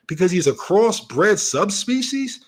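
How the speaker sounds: slow, disbelieving repeat of his words; mocking echo. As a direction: spell out the absurd claim slowly. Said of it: "You're saying that".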